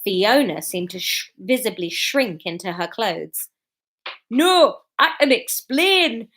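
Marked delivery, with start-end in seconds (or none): 4.3-6.3 high, slow squeak of panic. A narrator's reading. Husband caught by wife, squeaking in panic. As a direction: squeak it out, caught red-handed. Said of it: "Norman squeaked".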